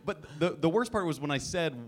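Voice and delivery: ordinary delivery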